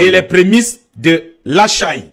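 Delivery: measured scripture reading with pauses; lecture biblique à voix haute. Acted. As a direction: read the verse out deliberately, phrase by phrase. Lit un passage biblique. (lecture posée d'un verset biblique)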